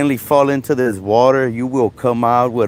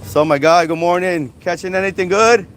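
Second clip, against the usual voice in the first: friendly greeting; 5 semitones higher than usual. Real, not acted. Greeting a fisherman.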